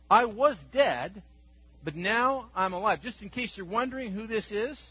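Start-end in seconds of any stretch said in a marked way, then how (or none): 0.1-3.0 I was dead, but now I'm alive, louder and slower, ringing out; triumphant proclamation. Acted. Preacher voicing the risen Christ to the congregation, triumphant. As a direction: proclaim it like a victory shout. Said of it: "He says".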